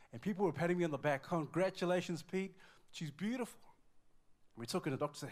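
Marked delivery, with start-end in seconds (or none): 1.2-3.6 higher, louder well-wisher's cheer; acted-out excited congratulations. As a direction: imitate delighted friends congratulating a new dad. Well-wishers congratulating the new father.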